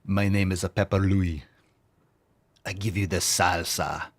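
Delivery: porn star voice. Acted. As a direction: introduce yourself like a cheesy porn star. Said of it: "sounds like a porn star name".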